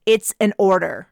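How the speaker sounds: a hard, clenched order; through gritted teeth. Acted. Captain ordering Raph to leave, through gritted teeth. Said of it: "I said through gritted teeth".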